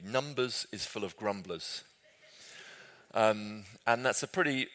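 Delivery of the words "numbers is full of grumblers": slow, deliberate quoting of a remembered line; slow quoted phrase. Shown as a demonstration. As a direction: say it slowly like a catchphrase. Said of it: "the phrase that stuck with me".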